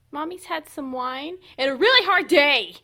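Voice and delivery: high, loud self-pitying pet voice; pet talk. Real, not acted. Owner telling dog about her hard day, loud pet talk. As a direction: plead with the dog.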